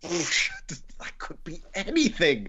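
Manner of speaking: stumped. Real, not acted. Contestant reacts, stumped by the quiz.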